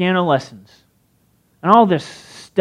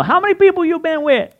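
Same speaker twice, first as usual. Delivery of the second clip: put-on Larry the Cable Guy's accent; 11 semitones higher than usual. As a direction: do the comedian's Southern twang. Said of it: "he's got this weird accent".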